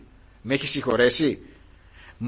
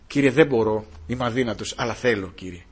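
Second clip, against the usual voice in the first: humble prayer. Acted. Quiet prayer to the Lord. (ταπεινή, σιγανή προσευχή)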